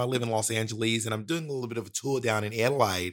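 casual Australian accent, low-pitched. Shown as a demonstration. Impersonating an Australian for the podcast host, Australian accent. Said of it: "my Australian accent".

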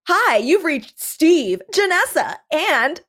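high, slow, chirpy outgoing message; answering-machine greeting. Retold or imitated. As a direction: sing it out like a family voicemail greeting. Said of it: "you hear, like".

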